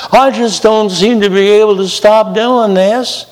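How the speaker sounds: put-on high, whiny-pitched southern accent. Sinner hanging their head over repeated sin, southern accent. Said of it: "Sorry about the southern accent".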